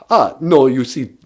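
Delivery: lightly voiced vampire, proud of Transylvania; a hint of the Count, explaining grandly; mild mock Count accent. Count voice explains Sesame Street.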